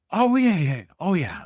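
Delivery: high, loud mock reassurance; eager assurance. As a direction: imitate someone insisting eagerly, starting high and loud. Quoting the restaurateur's eager assurance.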